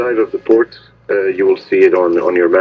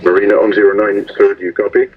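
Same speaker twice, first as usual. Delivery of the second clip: marine radio. Real, not acted. Marina answers over radio.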